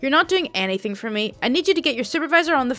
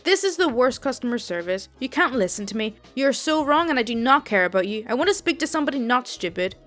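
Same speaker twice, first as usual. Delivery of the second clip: angry customer. Acted. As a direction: snap at the agent, lightly voiced old Italian woman. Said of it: "elderly Italian lady and clearly a smoker from her voice".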